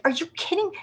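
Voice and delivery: a high, incredulous are you kidding; stunned by the petition woman; disbelief. Retold or imitated. Incredulous disbelief.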